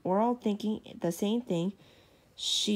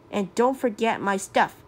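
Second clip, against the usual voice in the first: louder, commanding "don't forget my stuff"; bossy order; 5 dB louder than usual. Acted. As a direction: bark it at the servants like a spoiled princess. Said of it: "she ordered".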